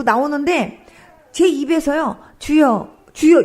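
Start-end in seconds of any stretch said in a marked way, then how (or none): 2.4-3.4 loud rising cry of the Lord. Retold or imitated. In the dream the words burst from her mouth, loud cry to the Lord. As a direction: cry out to the Lord, louder the second time. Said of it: "이렇게 소리가 나는 거예요".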